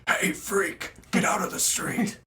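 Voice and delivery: put-on yelling at a kid. Shown as a demonstration. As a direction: shout it at a kid in the road. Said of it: "Probably like this".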